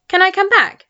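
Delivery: high, loud and eager; boy eagerly asking to return. A narrator's reading. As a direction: burst out with hope. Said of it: "said George eagerly".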